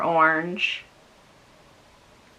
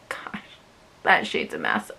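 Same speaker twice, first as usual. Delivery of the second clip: breathy whispered aside; 2 semitones higher, 6 dB quieter than usual. Real, not acted. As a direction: whisper it under your breath. Muttering aside about mistake.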